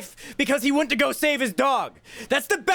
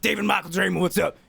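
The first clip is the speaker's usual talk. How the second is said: Joe Rogan impression; 3 semitones lower than usual. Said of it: "I'm Joseph Roganet here".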